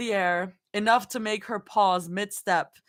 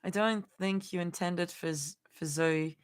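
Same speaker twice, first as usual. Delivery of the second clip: attempted Australian accent; 5 semitones lower than usual. Shown as a demonstration. Streamer testing an accent on a beta comment, tentative Australian. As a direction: feel out an Australian accent, breaking into a laugh. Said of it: "trying to imagine what an Australian accent sounds like".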